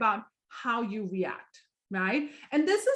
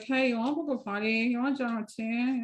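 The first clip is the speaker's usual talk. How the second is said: a hint of bored lounging; lazy couch-lounging ask. Shown as a demonstration. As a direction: toss it out half-heartedly from the couch. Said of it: "lounging on the couch".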